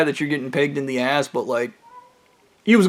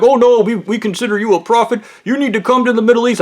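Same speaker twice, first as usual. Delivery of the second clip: higher, insistent pleading; insistent callers; 6 semitones higher than usual. Retold or imitated. Callers urging him to visit the Middle East. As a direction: press him to come, pitched up. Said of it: "And they're like".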